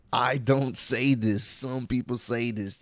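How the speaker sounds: slow, drawn-out mimicry of a disclaimer; mocking quote. Host quotes interviewer's disclaimer back, slowly mocking. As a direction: stretch each phrase to poke fun at it. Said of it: "Bro, he said".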